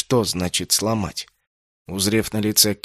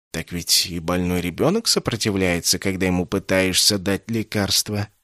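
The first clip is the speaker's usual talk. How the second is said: gentle remark; 2 semitones lower than usual. Acted. Insanna soothing the stubborn captive, gentle. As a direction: coax him like a patient child. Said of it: "мягко заметил Инсанна".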